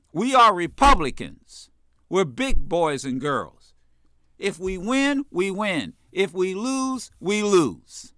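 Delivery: measured, stern rebuke to the party; plain-spoken firm leader; firm, no pussyfooting. Acted. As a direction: state it squarely, no hedging. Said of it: "I don't mean pussyfooting over it".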